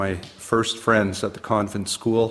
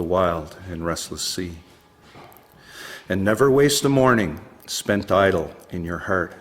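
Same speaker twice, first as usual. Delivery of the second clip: measured poetry reading, pausing between phrases; poem recitation. Acted. Poet reading advice to his ten-year-old self, poem recitation. Reads own poem aloud.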